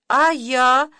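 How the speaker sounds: tearful high cry; a little wail of self-pity; mum crying again. A narrator's reading. Mum bursts into tears again over her concert. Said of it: "опять заплакала мама".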